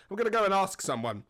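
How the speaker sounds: imitated posh, well-spoken accent; posh man. Posh man leaving to get help, imitated posh voice. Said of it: "very well-spoken, quite posh man".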